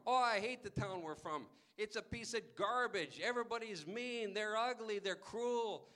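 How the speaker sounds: loud, sour rant about his hometown; grumpy complaining. Acted. Traveler tells grandpa about his hometown, loud and bitter. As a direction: spit out the complaints, fed up.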